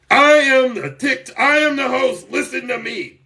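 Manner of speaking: lightly hammed-up TikTok host; mock fake TikTok host. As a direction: puff up like a pompous host. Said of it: "They're fake TikTok hosts".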